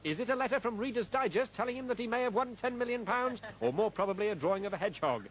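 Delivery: upbeat radio ad announcer. Acted. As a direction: sell it like a phone-in promo. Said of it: "followed by an announcement".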